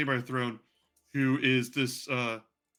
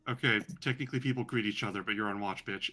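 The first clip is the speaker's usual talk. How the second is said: snide put-down; 4 semitones lower, 4 dB quieter than usual. Acted. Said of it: "looks you up and down and is like".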